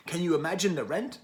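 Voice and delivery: half-hearted British imitation, rising at the end; a weak try at a British accent; attempted British accent. Quoting the British singer's line, half-hearted British accent. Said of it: "that's not a British accent".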